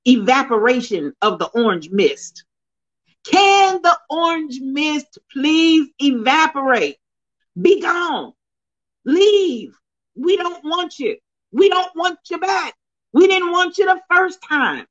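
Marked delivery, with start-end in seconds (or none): 3.2-14.9 rising preacher banishing, higher; hammed-up preacher telling him to leave; mock banishing. Banishing the orange mist, preacher style.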